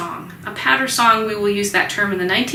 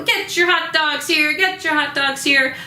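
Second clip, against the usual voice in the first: higher-pitched hawker's call; ballpark vendor call; 5 semitones higher than usual. Retold or imitated. Teacher imitating a ballpark hot dog vendor calling out. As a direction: sell hot dogs to the stands. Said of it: "like a baseball".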